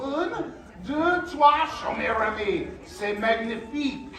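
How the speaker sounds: lightly French chef voice; hint of a proud Paris chef. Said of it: "I'm gonna count to three in French".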